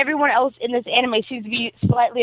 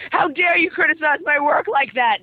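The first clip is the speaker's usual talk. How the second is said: indignant, pitched up; mock outrage; 4 semitones higher than usual. Boy beats up the bully over his work, mock outrage. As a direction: play an offended poet. Retelling Kenji attacking the bully.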